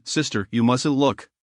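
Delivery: shy protest. A narrator's reading. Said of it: "and protested".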